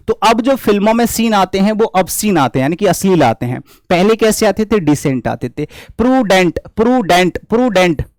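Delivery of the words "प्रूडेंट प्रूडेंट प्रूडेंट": "प्रूडेंट" broken into "pru" and "dent", repeated evenly; syllable-split pronunciation. Shown as a demonstration. Teacher building a memory trick, "प्रूडेंट" split as pru-dent. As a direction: drill "प्रूडेंट" as two separate parts, pru-dent. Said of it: "प्रू मतलब पुराने".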